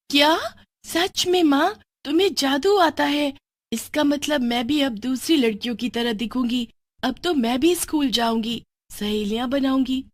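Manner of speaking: put-on high, delighted gasp of a girl; thrilled at the news; excited girl. Daughter hearing mother knows magic, high excited voice.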